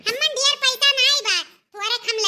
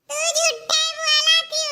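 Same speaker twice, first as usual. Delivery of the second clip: put-on high, slow sulky boy; a kid's whiny accusation; little boy calling his mother a liar; child voice; 5 semitones higher than usual.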